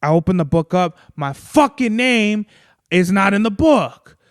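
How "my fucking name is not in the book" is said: slow, higher, louder, each word dragged out in disbelief; can't believe what he's reading; stunned disbelief. Real, not acted. Reading the book and finding his name gone, stunned disbelief.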